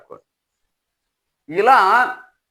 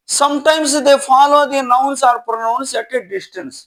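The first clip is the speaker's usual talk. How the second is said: slow, measured reading of a rule; dictation reading; 2 semitones higher, much slower than usual. Acted. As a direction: read it out slowly for students to write. Reads English rule slowly. (నెమ్మదిగా dictation లా చదవడం)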